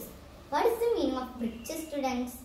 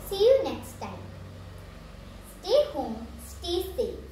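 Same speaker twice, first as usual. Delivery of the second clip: cheerful farewell; 5 semitones higher than usual. Real, not acted.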